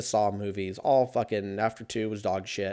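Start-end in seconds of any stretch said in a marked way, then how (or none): none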